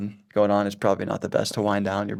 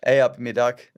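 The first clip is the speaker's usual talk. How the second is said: "Hey up, me duck" with American vowels; American accent; 4 dB louder than usual. Shown as a demonstration. Guest performs local greeting for host, American accent. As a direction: try the English greeting as an American. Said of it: "say in an American accent".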